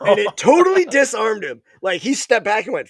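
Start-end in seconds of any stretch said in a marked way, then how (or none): 0.0-1.6 laughing. Real, not acted. Laughing while telling story.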